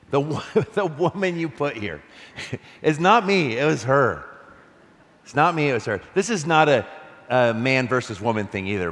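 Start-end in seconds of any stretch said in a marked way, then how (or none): 0.1-4.2 higher, louder, laughing mock whine; a hint of a childish Adam passing blame; lightly voiced whiny man; whiny Adam blaming. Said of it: "what a shameful moment for Adam". 5.2-6.0 mock blaming Adam. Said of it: "shameful moment for Adam".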